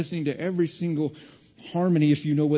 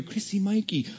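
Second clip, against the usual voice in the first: mother calling; 6 semitones higher than usual. Retold or imitated. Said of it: "I hear".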